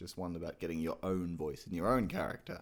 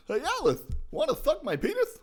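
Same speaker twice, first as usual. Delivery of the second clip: very high, loud lisping cartoon voice; animated and manic, with an exaggerated lisp; Mad Hatter; 8 dB louder than usual. Shown as a demonstration. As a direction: call out in a high, madcap lisp. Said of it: "Mad Hatter is more of a lisp".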